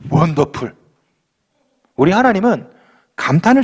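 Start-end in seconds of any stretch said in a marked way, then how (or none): 0.1-0.7 원더풀 said low, amazed; awed wonderful. Pretend. God marveling at the woman's faith, low awed wonderful. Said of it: "혈루증 여인의 믿음 보시고".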